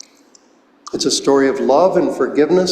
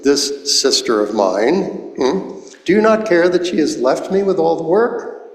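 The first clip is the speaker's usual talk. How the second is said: whining; 3 semitones higher than usual. Retold or imitated. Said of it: "in a whining mood".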